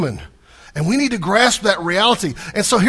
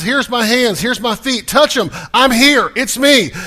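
louder, higher Jesus quote; 5 semitones higher, 5 dB louder than usual. Acted. Jesus voiced showing his wounds.

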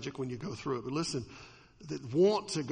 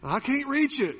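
put-on whiny child; 7 semitones higher, 4 dB louder than usual. Child's reply in story.

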